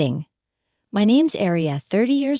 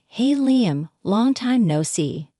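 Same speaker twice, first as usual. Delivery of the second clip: cheerful; slower than usual. Acted. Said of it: "her cheerful voice saying".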